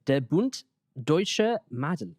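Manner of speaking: attempted German pronunciation; careful, light German accent. Shown as a demonstration. Reading the group's name for translation, light German accent. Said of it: "Sorry for the accent".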